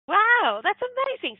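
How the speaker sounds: very high, loud wow of wonder; amazed. Retold or imitated. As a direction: marvel at the good news, pitch soaring. Reacting to patient's recovery news.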